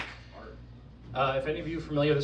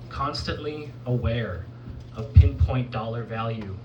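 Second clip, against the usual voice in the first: measured, understated spoken-word delivery; poetry recital; 3 semitones lower than usual. Acted. Poet reciting to an audience about the circus, poetry recital. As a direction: recite with weary, restrained disillusion.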